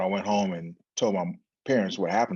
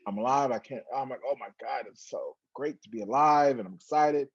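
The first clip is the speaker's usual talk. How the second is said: retold excitement; 4 semitones higher than usual. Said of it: "I'm screaming from the top of my".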